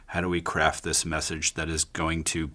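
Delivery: flat mechanical robot voice. Pretend. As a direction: say it like an emotionless machine. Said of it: "That was my robot voice".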